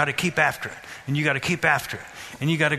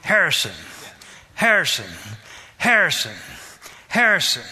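mildly raised, falling call, repeated evenly; repeated name call. Retold or imitated. Family repeatedly calling a child by name, calling out. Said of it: "they just kept calling you".

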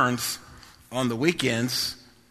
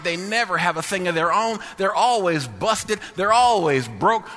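mocking dad; 6 semitones higher than usual. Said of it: "He said".

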